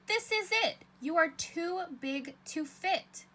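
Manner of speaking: high, loud storybook shout. Acted. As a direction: belt it out like a fed-up kid. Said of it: "Would you shout".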